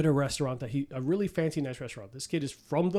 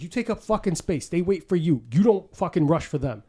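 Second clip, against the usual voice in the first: imitating the Penguin; 3 semitones higher, 5 dB louder than usual. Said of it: "He's like".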